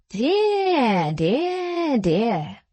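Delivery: high, swooping croon stepping down; singsong old patriarch tutting kindly; bland regret. A narrator's reading. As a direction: stretch each word in a falling arc.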